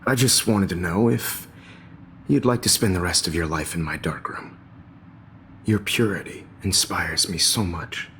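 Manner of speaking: creepy predator voice. Acted. Nightmare teacher turns menacing.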